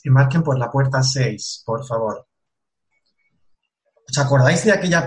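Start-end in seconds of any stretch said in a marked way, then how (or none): 0.0-2.3 loud, formal boarding call over the tannoy; airport announcement. Pretend. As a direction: announce it like the gate agent. Mock boarding call opening workshop.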